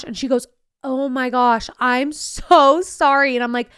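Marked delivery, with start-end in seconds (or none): 0.8-3.4 effusive apology. Retold or imitated. Acted apology from the other woman.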